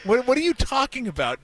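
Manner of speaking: high, disbelieving, half laughing; can't believe it, still laughing; high amused disbelief; incredulous laughing. Real, not acted. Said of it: "I couldn't even talk".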